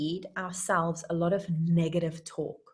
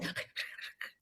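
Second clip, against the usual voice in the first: puppy panting; 15 dB quieter than usual. Acted. Acts out puppy running.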